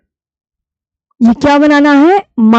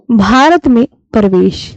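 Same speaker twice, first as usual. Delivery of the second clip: slow dictation. Shown as a demonstration. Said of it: "तो आप बोलोगे".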